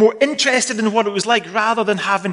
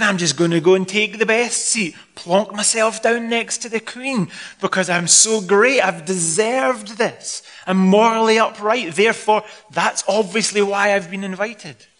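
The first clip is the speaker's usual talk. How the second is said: mock self-important boasting, stretched on key words; self-satisfied Pharisee; 3 semitones higher than usual. Pharisee thinking he deserves the best seat, self-satisfied. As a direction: puff yourself up like an entitled guest. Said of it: "Not like these Pharisees, thinking".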